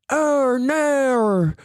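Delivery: high Australian oh no; mock Australian vowel on no; lightly imitated Australian accent. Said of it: "Australian people who do this".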